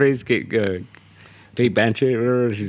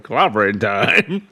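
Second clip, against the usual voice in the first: slow, drawn-out character voice; character's voice; 4 dB louder, much slower than usual. Acted. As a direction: stretch it out as the character's voice. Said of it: "You want that voice coming out of".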